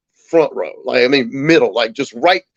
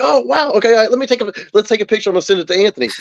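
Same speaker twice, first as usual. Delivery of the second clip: Jim Norton; 6 semitones higher, faster than usual. Retold or imitated. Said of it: "And he's like".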